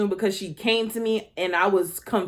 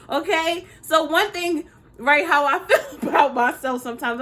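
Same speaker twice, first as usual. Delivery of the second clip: ordinary talk, nothing marked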